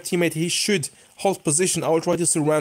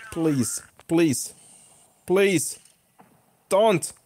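beg, a little more desperate each time; anxious pleading; 3 semitones higher, much slower than usual. Real, not acted. Gamer nearly one shot from death, anxious pleading. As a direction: separate pleas climbing in pitch.

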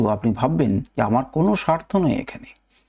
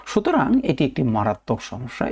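মারাত্মক hit firmly in the sentence; stress on মারাত্মক. Shown as a demonstration. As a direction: lean on মারাত্মক as the key word. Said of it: "মারাত্মক শব্দের উপরে জোর দিন". (মারাত্মক শব্দের উপর জোর)

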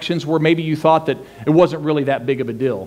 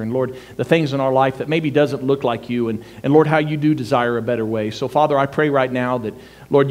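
earnest, unhurried prayer, kept fairly low; 3 semitones lower, 3 dB quieter than usual. Real, not acted. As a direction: lead the room in an easy, sincere prayer. Leads the opening prayer.

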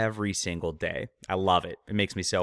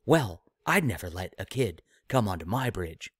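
dismissive captain. Retold or imitated. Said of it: "Shatner allegedly replied".

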